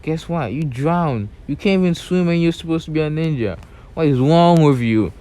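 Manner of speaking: high, loud mocking rant; mocking a failed ninja, loud and high; taunting shout. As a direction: yell it down at her, sneering. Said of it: "he's like".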